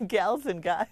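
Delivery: "Gals and guys" laughed out, amused by the words; laughing repeat. Real, not acted. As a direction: chuckle through "Gals and guys".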